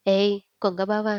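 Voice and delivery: a touch of an angry cry at her cousin; mildly cross teasing yell; understated angry call. Acted. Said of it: "చెయ్యెత్తింది సాధన కోపంతో".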